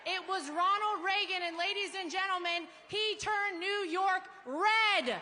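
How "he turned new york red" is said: shouting. Real, not acted. Rally crowd, triumphant shout.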